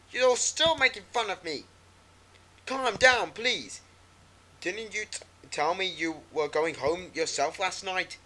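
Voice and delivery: she feels betrayed and tells him so; upset auntie. Acted.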